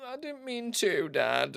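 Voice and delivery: high, sheepish little dog voice; dog apologising to his dad in a squeaky high voice; voicing the dog. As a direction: play the guilty pup pleading with dad. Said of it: "He just looks a little bit like".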